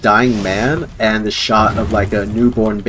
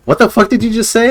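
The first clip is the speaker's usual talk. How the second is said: high-pitched, incredulous demand; shocked mom; 10 semitones higher, faster than usual. Retold or imitated. Mom reacting to her kid's threat, shocked. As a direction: imitate a mother appalled at her kid.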